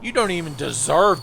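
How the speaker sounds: furious yell at the enemy; angry shouting. Real, not acted. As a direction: bellow it out, enraged. Yelling at enemy in fight.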